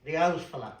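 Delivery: owl fella, said al fella; dialect pronunciation. Shown as a demonstration. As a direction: say owl as al, old man. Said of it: "the same thing as A O, old".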